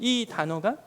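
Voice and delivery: normal talking voice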